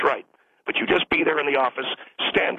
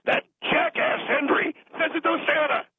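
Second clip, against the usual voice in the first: careless parent; 12 semitones higher than usual. Retold or imitated. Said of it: "radio turned up full blast".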